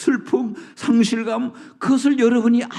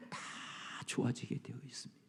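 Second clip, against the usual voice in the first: quick hushed whisper; fast whispered assurance; 8 semitones lower, 22 dB quieter, faster than usual. Acted. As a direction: let the promise fall to a whisper. Sermon point whispered.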